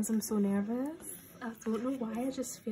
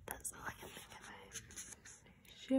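hushed, slow, much softer; slow whisper; 13 semitones lower, 12 dB quieter, much slower than usual. Real, not acted. Nervous fan repeating to herself what obsesses her, slow whisper. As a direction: drop to a drawn-out whisper.

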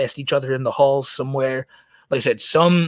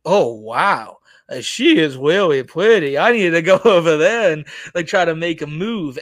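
smitten streamer impression; 3 dB louder than usual. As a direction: imitate a man awestruck by a crush. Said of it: "and he was like".

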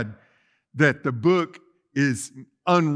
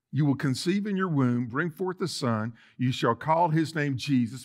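softly read; 3 semitones lower, 5 dB quieter than usual. Shown as a demonstration. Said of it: "I want you to hear it as if you were Mary".

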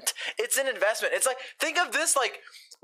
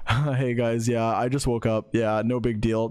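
much lower, put-on casual deep voice; fake deep voice; 12 semitones lower than usual. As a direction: drop the voice low to sound cool around a girl. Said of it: "you're like".

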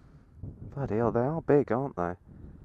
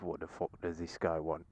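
cow's thoughts; 8 semitones lower, 15 dB quieter than usual. Retold or imitated. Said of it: "they're all looking at me is like".

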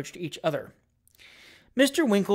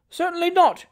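emphatic denial; 13 semitones higher, 6 dB louder than usual. A narrator's reading. Doctor insists emphatically.

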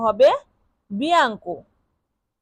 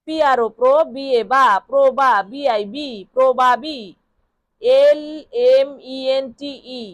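spelling out letters. Shown as a demonstration. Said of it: "আপনারা এখান থেকেও বানান করতে পারেন".

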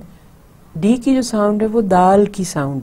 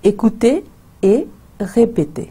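slow, drawn-out classroom prompt; teacher's model; 4 semitones higher, much slower than usual. Shown as a demonstration. Teacher prompting the class, slowly. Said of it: "Listen and repeat".

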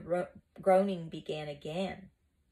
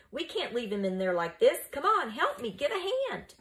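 higher, pressing call for help; rally them, climbing higher as it goes; urgent shout; 7 semitones higher, 3 dB louder than usual. Acted. Mucius urging the others to free their teacher, shouting. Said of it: "he shouted at the others".

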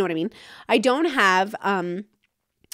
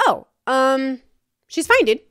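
casual brother; 3 semitones higher than usual. Retold or imitated. Brother telling therapist relatives she's fine, casual. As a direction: shrug it off like a chill farm guy. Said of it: "And Farm Brother goes".

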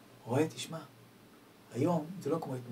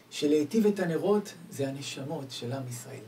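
normal talking voice

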